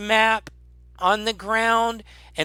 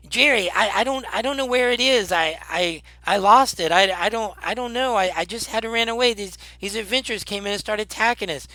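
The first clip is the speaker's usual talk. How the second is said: higher-pitched goblin stammering out excuses; flustered goblin; 5 semitones higher than usual. Acted. Peg explains the lost thing to Jerry, flustered goblin voice. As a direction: stumble and rush through a panicked explanation. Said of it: "Peg goes".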